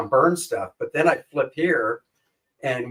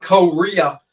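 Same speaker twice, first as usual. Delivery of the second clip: ordinary delivery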